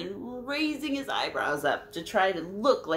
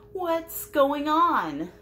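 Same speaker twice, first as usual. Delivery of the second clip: confused chimp; 9 semitones higher, 5 dB louder, much slower than usual. Acted. Confused chimp in read-aloud story.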